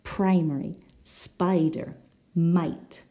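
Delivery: "Primary", "spider", "might" with a clear long I; I vowel. Shown as a demonstration.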